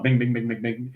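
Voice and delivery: rapid little bings, low-key; imitated bings. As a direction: imitate numbers popping up, fading at the end. Imitates numbers popping up on board.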